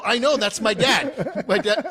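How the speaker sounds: high, loud, re-enacted glee; excited comeback. Jumper answering the screaming sergeant about his dad, excited. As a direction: blurt it proudly, voice way up.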